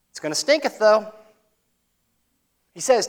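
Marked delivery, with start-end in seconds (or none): 0.1-1.1 "It's gonna stinketh" lifted high, with a cheeky rise on stinketh; mock pious Martha. Preacher mimics Martha's pious platitude, high and mocking. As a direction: play Martha's hollow piety, lifting stinketh up high. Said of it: "spiritual platitude".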